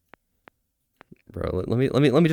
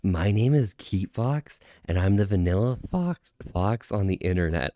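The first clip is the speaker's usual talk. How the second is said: tentative streamer impression; lightly put-on fox persona; a rough stab at someone's catchphrases; Keat Fox. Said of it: "I can't do that with a voice crack".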